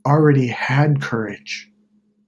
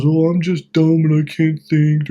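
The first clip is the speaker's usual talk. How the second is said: dopey scarecrow; 4 semitones higher, 4 dB louder than usual. Retold or imitated. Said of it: "the Scarecrow's".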